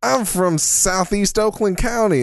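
high, twangy mock hick accent; a daughter doing the hick voice. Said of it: "talk like this".

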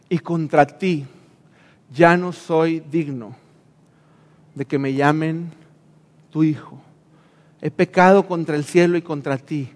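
a son with his head bowed, barely able to say it; humble confession. Acted. The prodigal son confessing to his father, hushed and contrite.

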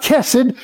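chesed said KESS-ed; chesed with K for the first sound; wrong K version. Shown as a demonstration. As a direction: open chesed on a hard English K. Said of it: "more like the k".

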